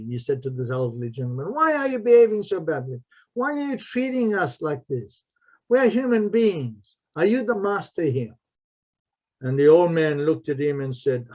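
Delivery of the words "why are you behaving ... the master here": higher, fast indignant challenge; a young boy confronting the harsh guard. Retold or imitated. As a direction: speak up as a boy confronting an elder. Boy confronts harsh old man.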